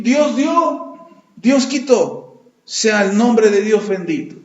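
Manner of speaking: slow, reverent acceptance of loss; Job's slow surrender. Retold or imitated. Job accepting his losses, slowly and reverently. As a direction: let each phrase fall slowly, resigned. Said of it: "lo único que dijo Job fue".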